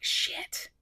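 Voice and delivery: a dismayed little whisper; whispered shit. Retold or imitated. Told fans about the room number, whispered. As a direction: breathe it out under your breath.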